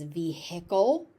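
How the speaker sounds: "vehicle" as vee-HICK-ul, h sounded; nonstandard pronunciation. Shown as a demonstration. Teacher showing a common nonstandard form, vee-HICK-ul. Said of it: "not a standard pronunciation".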